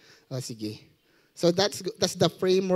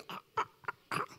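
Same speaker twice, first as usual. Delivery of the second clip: Korean zombie gasps; 12 dB quieter, much faster than usual. Retold or imitated.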